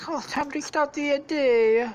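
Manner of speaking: high, cheery put-on voice; Mario. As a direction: chirp it as a cartoon hero. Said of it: "he's like".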